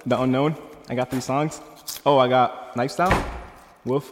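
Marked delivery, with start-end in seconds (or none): 0.1-0.6 loud, hyped-up, laughing; excited shout. Real, not acted. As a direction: hype up the song names. Hyped listing his songs.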